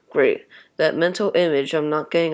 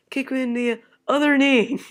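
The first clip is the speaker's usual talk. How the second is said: cheering; 6 semitones higher than usual. Acted. Cheering at contest.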